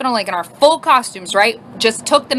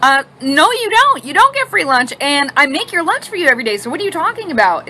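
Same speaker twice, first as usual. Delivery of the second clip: louder, higher scolding; mock scolding mom, louder; stern mom; 4 semitones higher, 3 dB louder than usual. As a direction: call her out firmly. Mom confronting daughter.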